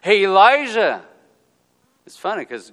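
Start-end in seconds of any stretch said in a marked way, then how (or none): 0.0-1.1 loud, high hey to a buddy; mock cheerful call. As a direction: call out to him brightly. Mock God hailing Elijah.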